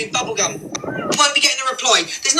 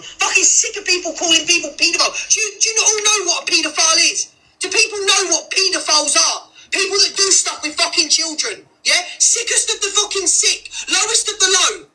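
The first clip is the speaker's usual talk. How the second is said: heated rant; 5 semitones higher than usual. Real, not acted. Angry rant about accusations.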